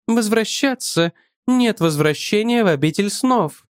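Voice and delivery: put-on a languid young priestess, intrigued by the stranger; voiced Estella. A narrator's reading.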